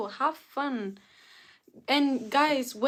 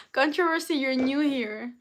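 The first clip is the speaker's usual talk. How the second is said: excited greeting; 3 semitones higher, 5 dB louder than usual. Real, not acted. Greeting new viewer by name.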